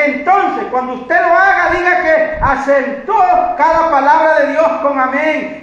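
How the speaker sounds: sustained, driving sermon delivery; preaching. Real, not acted. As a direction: preach it through with energy.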